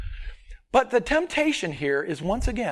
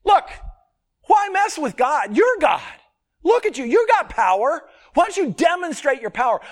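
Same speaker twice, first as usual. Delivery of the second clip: raised, louder coaxing voice, speeding up at the end; Satan's temptation voiced; 7 semitones higher, 5 dB louder than usual. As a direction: coax him like a tempter flattering. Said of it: "his temptation is".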